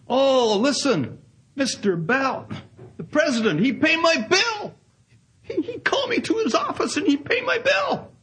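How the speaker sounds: put-on high, bursting with joy, in a foreign accent; excited foreign accent. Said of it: "I don't mean to mimic a foreign accent, but he was so excited".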